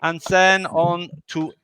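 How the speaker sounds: lightly put-on German accent, hosting; half-hearted German accent for the round; mock German accent. Host running the German round order, in a mock German accent. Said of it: "the slightly racist accent".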